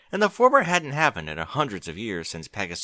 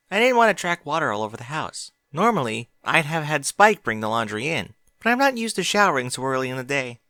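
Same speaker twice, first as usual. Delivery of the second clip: put-on higher, louder young mare voice; Twilight; 5 semitones higher, 5 dB louder than usual. A narrator's reading. Twilight chatting to Applejack after her shower, higher voice. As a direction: chat while drying off.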